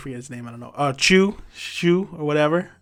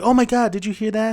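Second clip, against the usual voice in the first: higher-pitched retold panic; mock alarm; 6 semitones higher, faster than usual. Girl asks friend if she overheard, mock alarm. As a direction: imitate a startled girl checking if she was overheard. Voicing Onodera noticing her friend.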